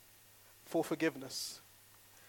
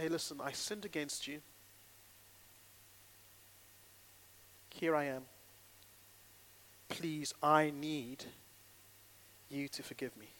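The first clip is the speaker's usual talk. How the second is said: humble apology. Shown as a demonstration.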